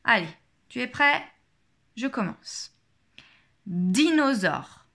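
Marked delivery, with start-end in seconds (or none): 3.7-4.9 drawn-out word for a listening exercise; slow, careful teacher's dictation. Shown as a demonstration. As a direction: say it slowly, stretching each syllable. Teacher calls out test word.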